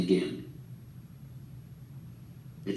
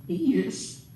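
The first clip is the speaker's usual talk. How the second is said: crying; 9 semitones higher than usual. A narrator's reading. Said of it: "She was crying".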